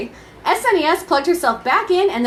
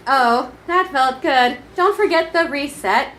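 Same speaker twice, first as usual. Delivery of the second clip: mock sultry moan; 2 semitones higher than usual. Console moaning in parody.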